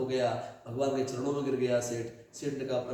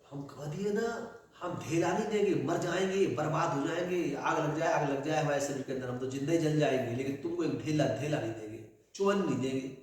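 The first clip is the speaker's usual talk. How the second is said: stubborn refusal; 2 semitones higher than usual. Acted. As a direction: refuse flatly, won't pay a penny. Corpse miser refusing stubbornly. (ज़िद्दी कंजूस का इनकार)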